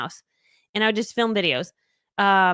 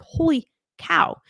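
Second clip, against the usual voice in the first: awed holy cow; 8 semitones higher, much slower than usual. Retold or imitated. Reacting to invitation.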